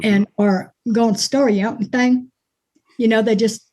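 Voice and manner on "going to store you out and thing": run-together Alabama accent. Shown as a demonstration. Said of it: "run it all together".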